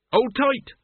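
brace her for the leap; urgent call. Acted. Riding through the gates.

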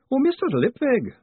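high, loud theatrical wail. Acted. Wailing woman rushing in on Moist, loud high wail. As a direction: burst in wailing his name. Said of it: "a wailing woman rushes into a room".

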